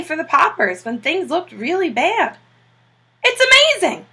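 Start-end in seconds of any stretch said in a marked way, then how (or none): 3.2-4.1 high, admiring exclamation; amazed. A narrator's reading. Admiral marvels at the clever penguins, amazed. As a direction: marvel at the trained birds. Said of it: "said Admiral Drake".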